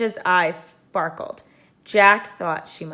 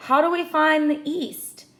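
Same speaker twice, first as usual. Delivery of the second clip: Jack asking; 10 semitones higher, 5 dB louder than usual. A narrator's reading.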